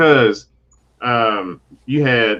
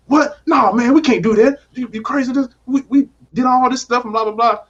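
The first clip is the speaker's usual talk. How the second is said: high, louder shocked refusal; mock outrage; 7 semitones higher, 3 dB louder than usual. Sam scoffing at Bucky's Zemo plan, high shocked refusal.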